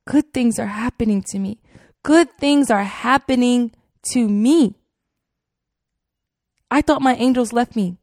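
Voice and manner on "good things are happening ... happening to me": hysterical repeating. Retold or imitated. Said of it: "And I'm just hysterical".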